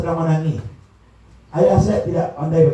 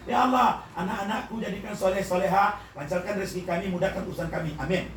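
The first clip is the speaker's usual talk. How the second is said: mock lump-sum prayer; 7 dB quieter than usual. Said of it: "namanya doa all in one".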